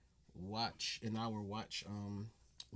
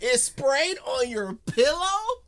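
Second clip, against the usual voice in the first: high, emphatic disbelief; raised pitch, baffled and tickled; amused incredulity; 6 semitones higher, 4 dB louder than usual. Real, not acted. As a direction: question it as if physically impossible. Incredulously retelling the comedian's mishap.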